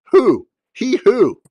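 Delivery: loud, high demand; insistent questioning. Real, not acted. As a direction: call it out sharply, pitch jumping up. Demanding who a viewer comment means.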